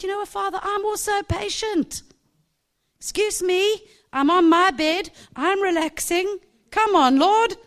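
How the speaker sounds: high, loud exasperated protest; protesting loudly. Retold or imitated. Patient in bed protesting to the Lord, loud and exasperated.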